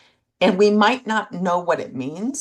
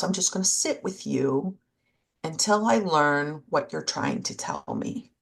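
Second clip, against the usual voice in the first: tender self-talk. Shown as a demonstration. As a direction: speak gently as to a hurting friend. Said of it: "but just to say".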